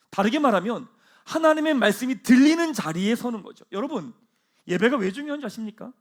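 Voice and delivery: usual speaking voice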